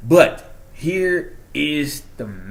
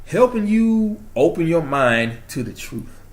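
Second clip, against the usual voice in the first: slow, higher, heartfelt proclamation; emphatic declaration; 4 semitones higher, 4 dB louder, slower than usual. Real, not acted. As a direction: draw it out like a mission statement. Proud declaration, then repeats as quote.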